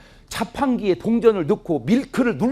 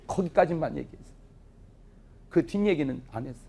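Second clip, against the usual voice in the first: ordinary delivery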